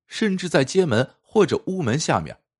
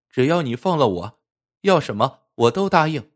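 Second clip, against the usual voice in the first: thin little voice; 3 semitones higher than usual. Acted. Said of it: "小妖细声细气地说".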